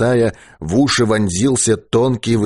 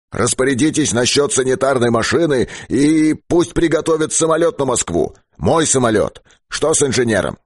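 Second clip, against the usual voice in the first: lightly acted commander, raised pitch; chief giving orders; 5 semitones higher than usual. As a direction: issue instructions to the radio operator. Chief gives orders by radio. (начальник отдаёт распоряжения слегка повышенным голосом)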